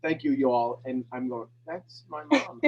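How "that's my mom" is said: high, far-off imitation of his mother; mock mom voice. Telling the call he heard his mother, playful high mom voice. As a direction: squeak it out like Mom would.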